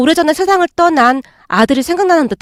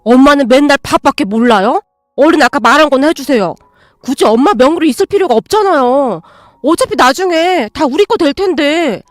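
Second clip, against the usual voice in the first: rude demanding son. Acted. Son demands mother's apartment.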